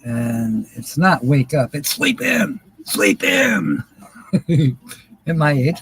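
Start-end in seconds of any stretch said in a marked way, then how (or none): 1.8-3.8 singsong high. Pretend. Mock singsong joke.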